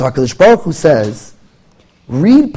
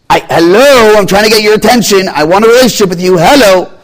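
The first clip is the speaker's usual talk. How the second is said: God calling out; 7 semitones higher, 5 dB louder than usual. Acted.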